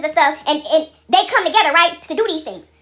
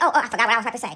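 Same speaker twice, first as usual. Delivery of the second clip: lower, dopey mock of a caller who forgot; 6 semitones lower, 3 dB quieter, much faster than usual. Mocking a caller who phones with nothing to say, low and dopey. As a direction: play the clueless caller fumbling for words. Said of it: "I ain't gonna call you and say".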